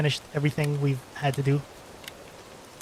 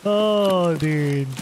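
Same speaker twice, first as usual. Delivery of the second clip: surprised; 2 semitones higher, 4 dB louder than usual. Real, not acted. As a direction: blurt it out, caught off guard. Sudden bad surprise in game.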